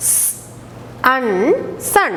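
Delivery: S, un, sun broken into sounds with pauses; phonic sounds. Shown as a demonstration. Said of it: "How will you read with, uh, phonic sound".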